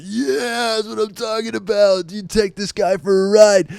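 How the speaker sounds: high-pitched mock hooting, long drawn "yeah"; hooting friends. Friends egging on their shy pal at a strip club, mock hooting. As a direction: imitate rowdy buddies egging a friend on. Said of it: "my friends are just hooting me on".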